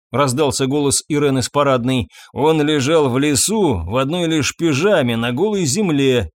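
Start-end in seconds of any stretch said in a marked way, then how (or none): none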